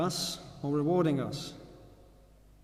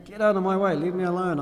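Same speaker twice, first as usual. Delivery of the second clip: louder, higher mock yell; retold angry shout; 4 semitones higher, 8 dB louder than usual. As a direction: throw him off, half-acted fury. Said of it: "he shouted at me".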